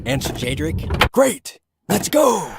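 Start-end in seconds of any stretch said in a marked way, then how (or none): 1.1-2.5 raised, lighter voice for Zalman; a friendly man checking the van; lightly voiced cheerful Zalman; Zalman's voice.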